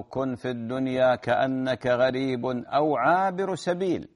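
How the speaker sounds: slow hadith quote. Acted. Quoting the Prophet's hadith.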